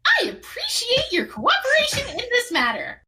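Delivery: high, formal diplomatic voice; formal character voice. Acted. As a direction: speak like a stiff diplomat. Player voices character in alien tongue.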